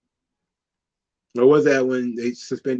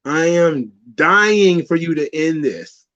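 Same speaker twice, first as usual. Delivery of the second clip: bored groan; slower than usual. Retold or imitated. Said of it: "people were like".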